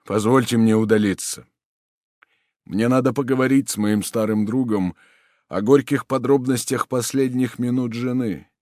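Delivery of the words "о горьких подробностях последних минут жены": ordinary delivery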